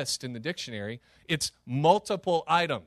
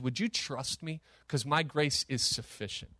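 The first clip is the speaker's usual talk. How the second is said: gentle; 2 semitones lower, 5 dB quieter than usual. Acted. God's gentle invitation.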